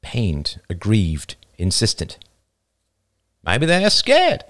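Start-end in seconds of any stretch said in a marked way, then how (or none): 3.4-4.4 put-on younger boy voice. A narrator's reading. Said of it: "offered the younger boy".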